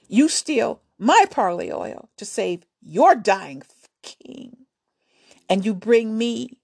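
lightly voiced queen talking down to a boy; scoffing warrior queen. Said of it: "she scoffed".

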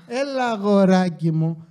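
condescending. Retold or imitated. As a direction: drag it out, mocking her tone. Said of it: "Το θέμα είναι ότι μου λες".

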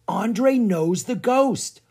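high, loud, drawn-out revelation; amazed exclamation. A narrator's reading. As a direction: exclaim a startling discovery slowly. Child's startling discovery.

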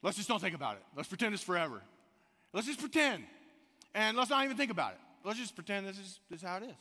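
coaxing denial. Retold or imitated. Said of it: "my response to her ... is".

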